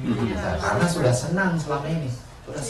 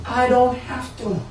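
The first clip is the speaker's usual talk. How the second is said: lifted, pleading first take; raised declaration; 9 semitones higher than usual. Shown as a demonstration. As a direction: voice up high, insisting. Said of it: "repeats line in raised voice". (suara tinggi, bersikeras)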